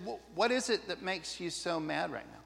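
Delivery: soft, gentle de-escalating voice; quiet caring question; calm reassuring. Shown as a demonstration.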